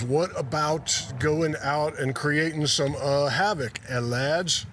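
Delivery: lightly put-on, shaky attempt at a British accent; badly faked British, with a hesitant lilt; a musician's British accent. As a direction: propose mischief to the lads in amateur British. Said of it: "to show the musician's British accent".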